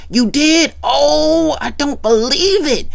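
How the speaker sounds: high, amazed disbelief. Retold or imitated. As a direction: gasp it out, can't believe it. Jerry Curl amazed.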